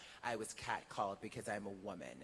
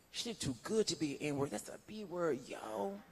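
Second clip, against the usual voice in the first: higher and louder, brash mock retort; imitating the catcaller arguing back; 8 semitones higher, 6 dB louder than usual. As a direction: toss it back at his friend like a cocky street guy. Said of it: "And then the Latin guy says".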